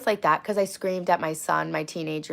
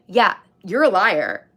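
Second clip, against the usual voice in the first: slow angry accusation; 2 semitones higher, 8 dB louder, slower than usual. Retold or imitated. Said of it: "I said".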